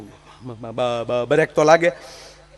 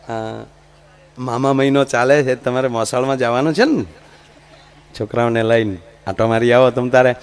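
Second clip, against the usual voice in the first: coaxing husband; 4 semitones lower than usual. Retold or imitated. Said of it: "એની પત્નીને કહે".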